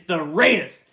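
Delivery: "Raiders" punched with a stretched first syllable; drawn-out Raiders. Shown as a demonstration. Host repeating the team name for co-host, drawn-out Raiders. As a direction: lean hard on the RAI in "Raiders". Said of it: "you have to say it like that".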